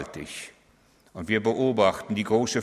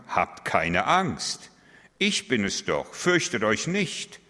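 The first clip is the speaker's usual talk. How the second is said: slow reassurance; slower than usual. Acted. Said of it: "Jesus sprach sie sofort an".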